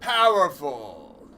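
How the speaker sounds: loud. Real, not acted. Shouted exclamation.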